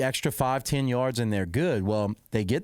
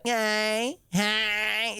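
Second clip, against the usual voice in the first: high, drawn-out "hey, hey" in a rapper's style; rap duo impression; 10 semitones higher than usual. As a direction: mimic the duo's party call, pitched up. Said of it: "They were talking like".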